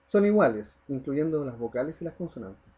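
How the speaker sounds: normal talking voice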